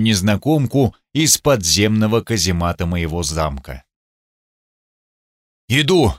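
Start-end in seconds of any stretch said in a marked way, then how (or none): 5.7-6.1 shouting. Acted. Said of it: "крикнул я".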